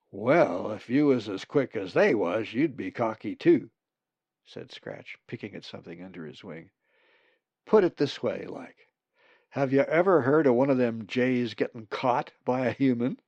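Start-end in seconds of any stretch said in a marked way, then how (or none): 0.1-3.7 loud, folksy retort; brash raven character. Acted. Scratch answers Molly about cocky jays, brash. 7.6-13.2 loud, folksy challenge; brash raven character. Acted. Scratch challenges Molly about jays, brash.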